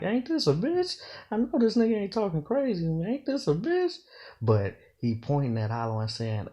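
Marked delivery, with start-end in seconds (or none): 0.0-4.0 much higher, outraged disbelief; high incredulous exclaim. Shown as a demonstration. Explaining the street phrase, high indignant exclaim. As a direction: squeal it in shocked disbelief. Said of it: "when a nigga talking regular, like".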